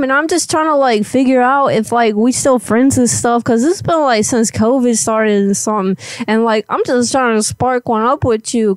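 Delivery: rapid, run-on rambling pitch; talking too fast. Pretend. Caller rambles at Elizabeth about hanging out, talking too fast. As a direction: rattle it off without letting them in. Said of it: "you be talking way too fast".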